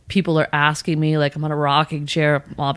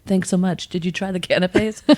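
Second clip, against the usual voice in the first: mock polite partygoer. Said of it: "everyone's like".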